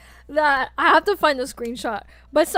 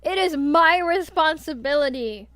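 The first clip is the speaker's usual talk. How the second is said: alpha wolf voice; 3 semitones higher, 6 dB louder than usual. Pretend. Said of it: "as your alpha".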